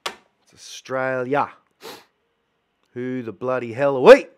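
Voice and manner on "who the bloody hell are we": loud punchy slogan; slogan shout. Pretend. Slogan shouted at the audience, loud. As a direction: belt the tagline out.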